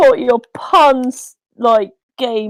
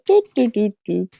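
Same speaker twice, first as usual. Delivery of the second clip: sad trombone hum; 4 dB quieter than usual. Retold or imitated. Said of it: "Price is Right trombone thing".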